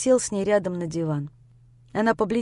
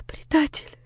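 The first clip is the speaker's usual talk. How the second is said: crying out, rising to a high loud wail; sobbing accusation; 14 semitones higher, 6 dB louder, slower than usual. Acted. Lera wailing at Grisha, calling him traitor. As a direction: wail it through sobs. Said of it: "повторяла она".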